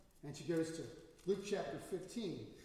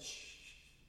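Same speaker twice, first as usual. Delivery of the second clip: hushing; 6 dB quieter than usual. Retold or imitated. Father hushing his returning daughter.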